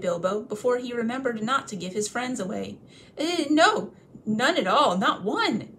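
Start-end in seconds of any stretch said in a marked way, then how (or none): 3.2-5.7 high, loud, hasty; flustered denial. Acted. Bilbo quickly taking back his answer, high and flustered. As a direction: backtrack in a panic.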